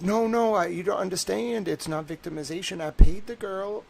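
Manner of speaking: high, pushy imitation of a defensive buyer; mock defensive. Imitating a relative insisting he paid the girl. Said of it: "they're gonna be like".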